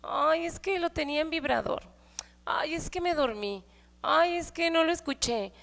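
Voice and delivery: a hint of breezy teenage excuses; carefree kids. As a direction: toss off lazy excuses. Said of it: "o sea, bien relax".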